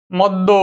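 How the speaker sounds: মদ্য as "mod-do"; doubled d. Shown as a demonstration. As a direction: hold the d in মদ্য, ending in o. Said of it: "দ্বিত্ব উচ্চারণ হবে".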